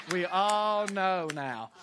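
slow, drawn-out knowing repeat. Shown as a demonstration. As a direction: stretch out We all know now, every word slow. Crowd joke, repeated line.

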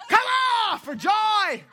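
high, loud laughing battle cry; laughing taekwondo yell; martial arts shout. Pretend. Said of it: "That's what you shout when you attack".

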